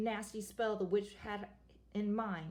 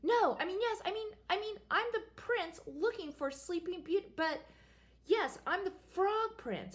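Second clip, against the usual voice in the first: flustered prince; 5 semitones higher than usual. Acted.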